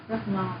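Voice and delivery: "Rất ngon" said slowly, falling on "rất"; Vietnamese demo. Shown as a demonstration. Teacher modelling "Rất ngon" for a learner, falling tone. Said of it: "Very good".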